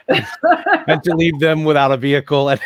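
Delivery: playful villain voice, laughing through it; gleefully mock his repo delight. Voicing the brother who loves repo.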